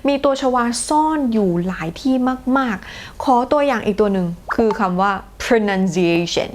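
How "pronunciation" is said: "pronunciation" said slowly and carefully; slow demo word. Shown as a demonstration. Teacher presents pronunciation as an example. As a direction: lay out "pronunciation" syllable by syllable. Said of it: "เห็นตัวชวาตรงไหนบ้างคะ".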